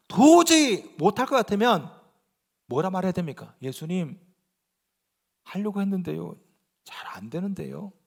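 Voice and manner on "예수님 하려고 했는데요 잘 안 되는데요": timid plea. Retold or imitated. Martha pleading to Jesus.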